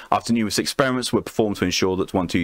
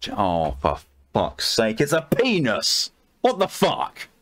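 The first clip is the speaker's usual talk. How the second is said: shocked exclamation; slower than usual. Real, not acted. Shocked by a rude SCP entry.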